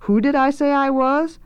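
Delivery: lightly voiced pompous announcement; lordly cook instructing underlings; self-important chef. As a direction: introduce yourself grandly, lifting to the question. Swelter names himself.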